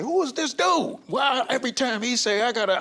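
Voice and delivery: high-pitched, exasperated younger self; mock fed-up teenage self. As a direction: play your teenage self, sick of being bossed around. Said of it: "I'm like".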